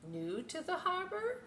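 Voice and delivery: high calling voice for the lighthouse. Acted. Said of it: "Lighthouse called".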